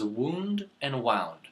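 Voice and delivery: wound first like woond, then like wownd; two pronunciations. Shown as a demonstration. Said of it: "The last one".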